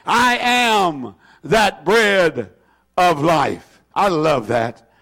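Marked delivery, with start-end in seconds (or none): 0.0-3.8 slow, deliberate reading that weights the word THAT; stress on THAT. Retold or imitated. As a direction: lean on THAT, drawn out slowly.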